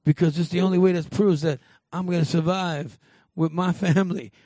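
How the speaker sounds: lightly mock the stubborn leader; mock Rick laying down the law; bossy Rick Grimes.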